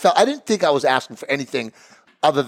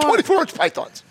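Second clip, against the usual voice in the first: higher wrestling promo bark; Hulk Hogan; 10 semitones higher than usual. Pretend. Riffing Hulk Hogan for cohost, higher wrestling promo yell. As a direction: hype it like a wrestler cutting a promo. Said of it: "You look like Hulk Hogan".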